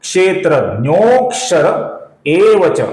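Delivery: क्षेत्रज्ञोक्षर with the "o" held long; lengthened avagraha. Shown as a demonstration. Teacher showing friends the pronunciation, avagraha drawn out. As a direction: stretch the "nyo" in क्षेत्रज्ञोक्षर, then एव च. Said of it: "इसका उच्चारण कैसे होगा".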